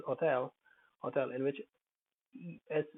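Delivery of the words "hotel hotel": "hotel" stressed on the last syllable, ho-TEL. Shown as a demonstration. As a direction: put the weight on the E of "hotel". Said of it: "E is stressed".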